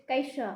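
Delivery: कैसा with a light ai glide, not kesa; ai sound shown. Shown as a demonstration. Teacher models the ai vowel for the class, gently. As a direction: let the ai be heard in कैसा. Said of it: "आई जो है वो ... थोड़ा सा सुनाई देगी".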